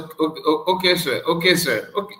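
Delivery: lightly imitated British accent; polite British "okay, sir". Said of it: "with the British accent".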